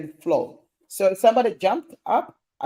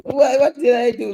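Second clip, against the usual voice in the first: mock innocence; 5 semitones higher, 7 dB louder than usual. Mock-defensive reaction to a comment.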